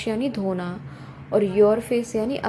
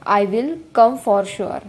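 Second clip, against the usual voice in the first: slow model reading; 4 dB louder, much slower than usual. Shown as a demonstration. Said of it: "teacher models the sentence slowly".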